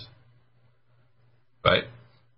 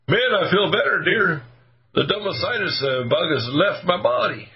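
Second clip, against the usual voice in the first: higher, cheerful voice of a cured patient; relieved patient; 7 semitones higher than usual. Retold or imitated. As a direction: play the patient who suddenly feels better, talking to his wife. Patient voiced after detox.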